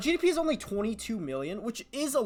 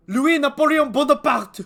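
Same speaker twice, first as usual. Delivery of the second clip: excited; 5 semitones higher, 11 dB louder than usual. Real, not acted. Spots a Bonaparte.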